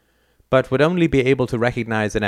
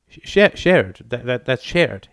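a touch of a stammer, slower; stammering son; 2 semitones higher, slower than usual. Acted. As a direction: trip over shared. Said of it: "he said".

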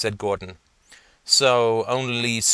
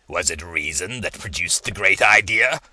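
guttural voice; 5 dB louder than usual. Acted. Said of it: "due to the guttural nature of the voice".

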